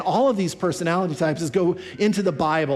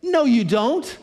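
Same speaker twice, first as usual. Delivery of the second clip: higher, urgent protest as Peter; 4 semitones higher than usual. Retold or imitated. Peter refusing Jesus's fate, higher and urgent. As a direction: plead against it, alarmed. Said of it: "Peter looks on and he says".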